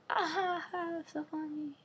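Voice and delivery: high laugh fading into soft words. Real, not acted. Vlogger laughing at her bee joke, amused. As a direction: laugh at your own pun.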